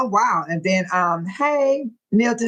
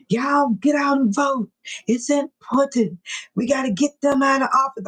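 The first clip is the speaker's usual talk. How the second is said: calm politician; 4 semitones higher than usual. Retold or imitated. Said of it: "He was calm".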